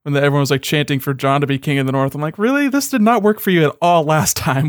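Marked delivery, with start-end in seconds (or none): 2.4-4.7 incredulous. Acted. Incredulous retort to the show's characters.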